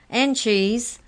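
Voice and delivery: loud, high, gleeful topper; laughing. A narrator's reading. Maury finishing the pie joke, laughing. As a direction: cap the joke with loud relish. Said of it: "laughed Maury".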